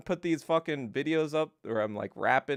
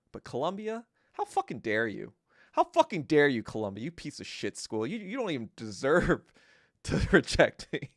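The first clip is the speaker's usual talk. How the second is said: rising mock outrage at a college. At Columbia for rejecting him, hammed-up outrage. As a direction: play it as hammed-up fury. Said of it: "I was like, kinda like".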